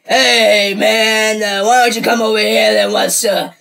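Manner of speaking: mild professor imitation; imitating old professor. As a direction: do a hint of an old science teacher. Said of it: "He used to sound like".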